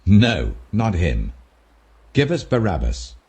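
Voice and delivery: a hint of an angry mob's shout; shouting back. A narrator's reading. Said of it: "They shouted back".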